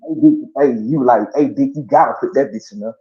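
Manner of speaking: a hint of big brother urging him on; brother's urging. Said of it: "my brother was like".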